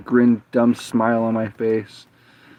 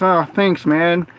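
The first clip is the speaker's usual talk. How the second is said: higher, appreciative mock voice; retold friendly thanks; 6 semitones higher, slower than usual. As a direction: imitate a grateful coworker, pitched up.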